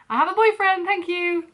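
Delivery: high and loud, flustered refusal; panicked insistence. Retold or imitated. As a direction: shut him down fast without being rude. Desperate refusal to stranger.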